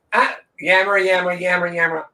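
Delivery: imitating nonstop chatter with nonsense repetition; lightly mocking a chatterbox; mock yammering. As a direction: rattle it off as mindless babble. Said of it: "after her nonstop yammering".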